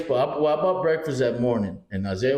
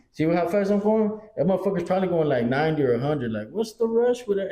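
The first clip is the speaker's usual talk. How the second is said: retold exasperation; 6 semitones higher than usual. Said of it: "And I'll be telling Steve".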